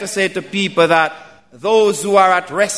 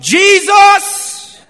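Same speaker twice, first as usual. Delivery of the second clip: much higher, louder desperate cry; 9 semitones higher, 5 dB louder than usual. Retold or imitated. Blind Bartimaeus calling to Jesus as he passes, loud high cry. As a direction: call out across the crowd. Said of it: "he cried out loud".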